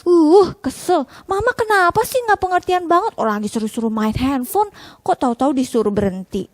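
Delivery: put-on high, whiny annoyed kid; annoyed child. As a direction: complain like a sulky child. Child voiced annoyed at mom. (anak kesal merengek)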